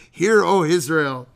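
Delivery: slow, loud faux-Irish declamation; mock Irish accent. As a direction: proclaim it in a joking Irish voice. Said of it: "Who turned us into Irish?".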